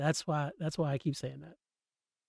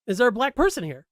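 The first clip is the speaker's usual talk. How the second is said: imitating Chit; 7 semitones higher, 5 dB louder, faster than usual. Chit's line retold again.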